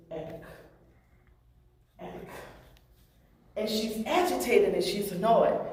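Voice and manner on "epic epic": soft whispered code word. Retold or imitated. Partner quietly calming the upset officer, soft whisper. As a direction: breathe the word softly, twice. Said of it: "he just whispers".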